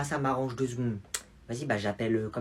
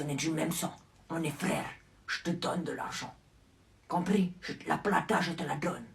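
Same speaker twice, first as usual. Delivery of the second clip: a hint of a soft-spoken gangster; hushed mafia boss; 5 dB quieter than usual. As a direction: play the quiet, menacing family boss. Mafia big brother, low and quiet.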